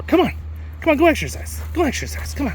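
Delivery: calling out. Real, not acted. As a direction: coax the horse to run. Urging the horse to run.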